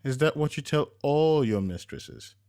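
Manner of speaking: wife teasing husband with a fake accusation; mock accusation. A narrator's reading. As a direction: play the jealous wife, half joking. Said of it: "serious look on her face".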